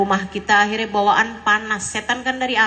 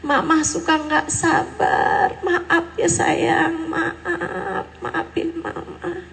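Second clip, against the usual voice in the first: pleading apology; 7 semitones higher, slower than usual. Pretend. Mother begs her child's forgiveness, pleading and fading. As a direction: beg forgiveness, voice rising then fading. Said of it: "duduk sama anak secara serius".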